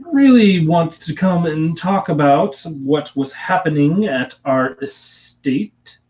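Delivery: a genteel aunt explaining family matters. Acted. To her returning niece, a lightly voiced genteel aunt.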